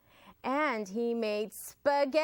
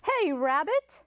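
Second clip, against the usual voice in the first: higher, louder call from outside; yelled call; 7 semitones higher, 5 dB louder than usual. Acted. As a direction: call through the door. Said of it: "someone yelled outside".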